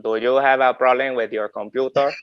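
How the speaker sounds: screw around as a put-on helpdesk agent. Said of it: "putting on different voices for people".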